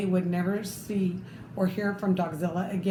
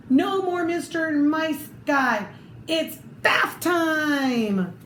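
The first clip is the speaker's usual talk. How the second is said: triumphant shout; 4 semitones higher, slower than usual. Acted. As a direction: stretch out the final threat with glee. Chief's triumphant threat.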